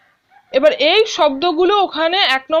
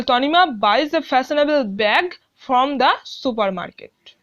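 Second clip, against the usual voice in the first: reads the sentence very slowly, word by word; slow classroom read-aloud; slow dictation reading; 3 semitones lower, much slower than usual. Shown as a demonstration. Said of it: "teacher reads completed sentence".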